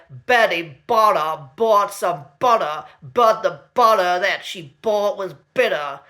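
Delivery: mock American accent with flapped T's. Shown as a demonstration. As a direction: say "Betty Butter bought some butter" American-style, T's as D's. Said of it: "in American English ... pronouncing T's as D's".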